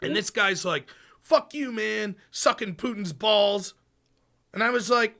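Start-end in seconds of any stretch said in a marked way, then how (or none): 1.2-3.7 drawn-out mocking insult; mock hostile jab. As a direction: imitate an aggressive heckler. Retells a hostile debater's insult.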